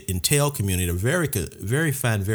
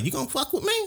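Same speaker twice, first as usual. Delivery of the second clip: tough guy voice; 13 semitones higher, 4 dB quieter, much faster than usual. Retold or imitated. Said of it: "they the type of cats like".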